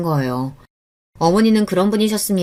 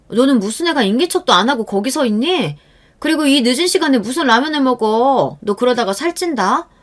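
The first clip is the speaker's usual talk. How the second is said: nagging scold; 5 semitones higher than usual. Acted. Aunt scolding niece over ramen.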